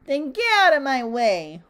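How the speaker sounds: loud, imperious command; bossy order. A narrator's reading. Little Miss Bossy orders Mister Small away, loud command. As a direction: order them aside forcefully. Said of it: "ordered Little Miss Bossy".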